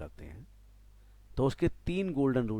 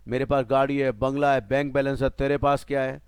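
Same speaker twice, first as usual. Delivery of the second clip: Bachchan dialogue; 5 dB louder than usual. Retold or imitated. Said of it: "Bachchan साहब कहते हैं".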